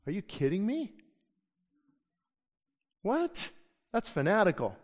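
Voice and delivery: mock disbelief, pitch jumping up on what; incredulous scoff. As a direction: scoff at the idea like it's crazy. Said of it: "they would look at me like".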